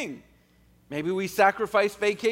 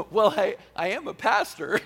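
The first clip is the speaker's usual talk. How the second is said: laughing. Retold or imitated. Joking reply to daughter.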